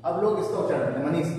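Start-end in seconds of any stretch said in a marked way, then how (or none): 1.1-1.3 मनीष with the ष flattened to an ordinary s or sh; casual everyday मनीष, no curled tongue; common simplified sibilant. Shown as a demonstration. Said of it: "इस सा को खत्म कर दिया".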